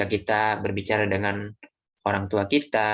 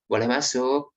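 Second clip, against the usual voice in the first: polite asking; 3 semitones higher than usual. Shown as a demonstration. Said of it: "Nah, tanyakan dulu".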